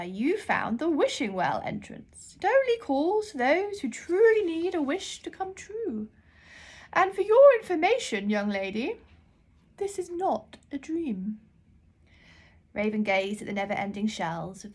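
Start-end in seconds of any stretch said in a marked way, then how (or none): 0.0-11.4 put-on much higher, louder old librarian voice; a grand, half-deaf librarian calling out. Deaf librarian shouts while holding her ear trumpet.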